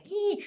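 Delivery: short wordless squeal of adrenaline; buzzed squeal. Retold or imitated. Comic describing the post-gig adrenaline, buzzed squeal. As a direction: let out a little wired squeak. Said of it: "the adrenaline that you get performing in a gig is like".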